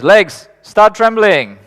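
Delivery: the body barking orders to the legs; hammed-up alarm voice; the body's voice. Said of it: "And he goes".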